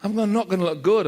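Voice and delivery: startled panic at the pimples; alarmed at the rash. Retold or imitated. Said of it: "And I was like".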